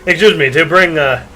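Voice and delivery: hammed-up hard sell pitch; eager salesman pushing a product; car salesman. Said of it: "continue reading it like a car salesman".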